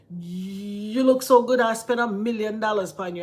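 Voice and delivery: imitating a Jamaican man flirting; Jamaican accent. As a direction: Jamaican accent, lightly voiced. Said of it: "Jamaican, he was like".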